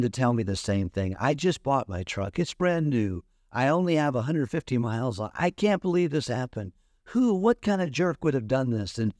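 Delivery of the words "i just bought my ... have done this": higher, exasperated lament; upset complaining. Retold or imitated. Truck owner complaining to the preacher, high exasperated voice. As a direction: vent the disbelief. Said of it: "he began going ballistic".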